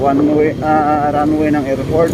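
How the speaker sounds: loud, high, calling out over noise; shouting over the traffic. Real, not acted. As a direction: raise your voice over engine noise.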